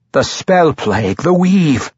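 grasping for reasons, voice climbing; flustered flailing. A narrator's reading. The matron mother flails for an excuse, flustered and rising. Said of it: "the matron mother flailed".

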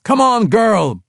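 high, slow dwarf call across the battle; dwarf shouting to Catti Brie to hurry. Acted. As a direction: call her in urgently, loud and high. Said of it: "Brunner called to Catti Brie".

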